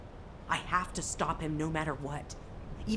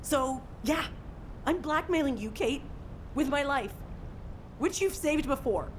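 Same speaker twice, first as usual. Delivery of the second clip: higher-pitched, insistent ultimatum; defiant threat; 4 semitones higher than usual. Acted. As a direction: press the threat home with rising urgency. Threatens Kate with own life.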